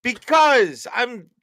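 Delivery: high, slow, stunned; flabbergasted. Real, not acted. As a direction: drag it out, flabbergasted.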